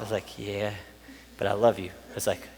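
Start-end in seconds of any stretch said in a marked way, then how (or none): 0.4-0.7 very low, quiet admission; sheepish. Acted. Sheepish reply to being corrected. 1.4-1.9 low, soft, loving voice; tender reassurance. Acted. Acts Jesus's tender reassurance.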